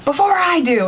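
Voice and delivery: high-pitched mock-frantic mom giving orders; imitated freak-out. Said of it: "my mom was freaking out".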